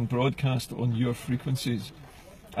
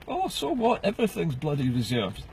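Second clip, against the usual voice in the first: scornful retort; 3 semitones higher than usual. Real, not acted. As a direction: brush the excuse off with contempt. Scoffing at government excuse.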